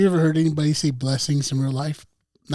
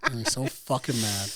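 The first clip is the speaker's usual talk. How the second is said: mock anger through a laugh; laughing through fake anger; 6 semitones lower, 6 dB quieter, slower than usual. Real, not acted. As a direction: say it while cracking up.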